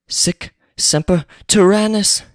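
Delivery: high, slow dramatic cry; mock triumphant shout. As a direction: proclaim it like a hammed-up assassin. Assassin shouts after shooting Lincoln.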